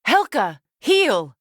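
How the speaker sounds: shouting a command to a pet; calling out. Acted. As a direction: call the wolf back firmly. Calling after her wolf.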